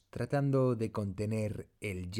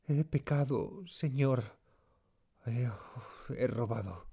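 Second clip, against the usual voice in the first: tag; 3 semitones higher than usual. A narrator's reading. Maid confesses a theft.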